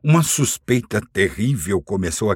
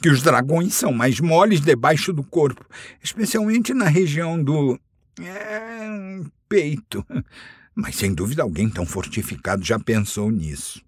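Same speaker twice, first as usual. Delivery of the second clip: higher, nervous, squeaky hobbit voice; frightened squeak; 7 semitones higher than usual. Acted. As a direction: squeak it out in fear. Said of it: "num gritinho assustado". (gritinho assustado de hobbit)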